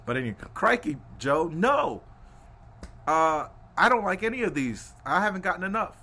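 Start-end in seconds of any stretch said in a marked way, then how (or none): 0.5-1.0 New Zealand crikey, played up; put-on New Zealand exclamation; mock New Zealand accent. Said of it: "Anytime I do my New Zealand accent". 1.2-6.0 louder, put-on New Zealand accent; role-played New Zealander answering back; the speaker, New Zealand accent. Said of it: "Anytime I do my New Zealand accent".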